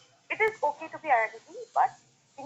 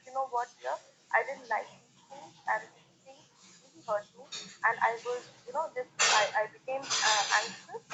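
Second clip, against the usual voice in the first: calm mature talk; 3 dB quieter than usual. Shown as a demonstration. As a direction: speak gently, no blame, like talking to your wife. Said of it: "try to have a very mature conversation".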